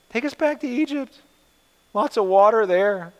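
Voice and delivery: high mock whine; whining Israelites. Preacher mocking the grumbling people, high whining voice. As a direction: whine like thirsty complainers. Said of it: "They were whining and pining".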